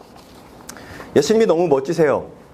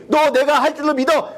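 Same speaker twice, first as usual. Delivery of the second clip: Jesus asking; 9 semitones higher than usual. Pretend.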